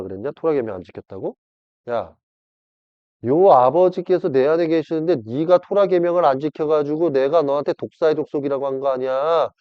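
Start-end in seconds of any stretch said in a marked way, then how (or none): none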